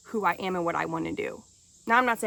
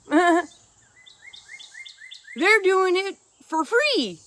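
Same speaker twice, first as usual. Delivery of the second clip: laughing; 10 semitones higher, 6 dB louder, slower than usual. Real, not acted. Mocking the media, laughing.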